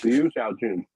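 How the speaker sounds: careful try at "Liu Xiaojun" in Mandarin tones; carefully shape "Liu Xiaojun" like a native speaker would; attempted Mandarin name. Shown as a demonstration. Host trying the lifter's name in Mandarin for his guest. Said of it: "I'll do my attempt here".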